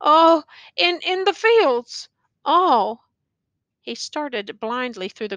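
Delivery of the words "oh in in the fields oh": slow, high, faraway murmur; dazed soldier half understands; dimly comprehending. A narrator's reading. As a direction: grasp it only dimly, slowly. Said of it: "as if dimly comprehending".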